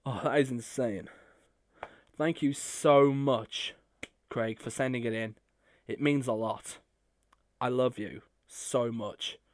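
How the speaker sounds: soft, choked-up thanks; emotional. Real, not acted. Fan thanking Uncle Craig for the gift, softly choked up. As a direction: hold back tears as you thank him. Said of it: "I'm getting emotional here".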